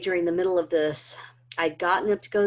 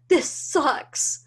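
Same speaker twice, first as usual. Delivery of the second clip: high, loud, anguished cry; screamed at God; 10 semitones higher, 4 dB louder than usual. Retold or imitated. Collapsed on the bedroom floor, screaming at God. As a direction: hurl the words up at God in despair. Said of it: "I screamed it".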